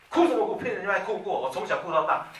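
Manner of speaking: high, loud mock scolding; scolding parent. Parent yelling at a crying child, hammed-up scolding. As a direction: snap at the child as an impatient parent would. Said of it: "你也不要去训他".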